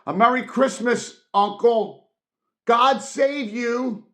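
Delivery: high, loud, bright holiday greeting; cheerful cry. Acted. Nephew bursting in to greet his uncle, cheerful loud cry. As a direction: burst in calling out Christmas cheer. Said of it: "cried a cheerful voice".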